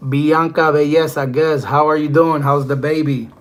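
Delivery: cheerful greeting. Real, not acted.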